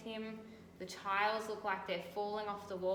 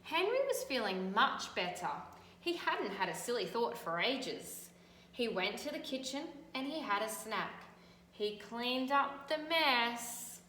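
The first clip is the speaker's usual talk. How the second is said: louder, animated read-aloud; storybook reading; 2 semitones higher, 3 dB louder than usual. A narrator's reading. Teacher reading to children, animated storytelling. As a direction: make the tale vivid for kids.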